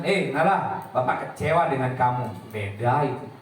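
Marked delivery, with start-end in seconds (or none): 0.0-2.3 "Eh" snapped, "kecewa" said firmly at normal level; curt disappointment. Shown as a demonstration. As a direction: hit it bluntly, no softness. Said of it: "Lain halnya dengan".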